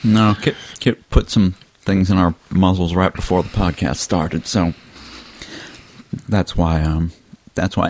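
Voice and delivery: muffled words through stuffed cheeks; cheeks stuffed full. Real, not acted. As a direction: mouth full while talking. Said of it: "why my mouth is full right now".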